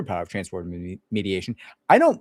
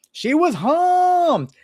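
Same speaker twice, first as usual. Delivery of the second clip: very high, very slow, loud pompous line; imitating old boss's speech; 8 dB louder, much slower than usual. Mocking late boss's courtroom speech, high and slow. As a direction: drag each word out, grandly. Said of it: "would deliver this little speech like".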